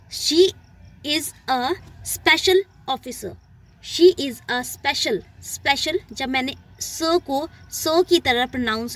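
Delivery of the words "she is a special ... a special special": very slow, word by word sentence; slow example read. Shown as a demonstration. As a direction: drag the example out for the class. (बहुत धीमे, शब्द-दर-शब्द उदाहरण)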